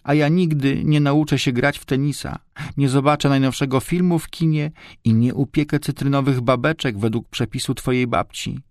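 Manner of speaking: high-pitched tearful complaining, acted; szlochająca dziewczynka. A narrator's reading. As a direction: lament in a high girlish voice, without real sobs. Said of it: "Szloch dziewczynki przerywany był". (udawany płaczliwy lament wysokim głosem)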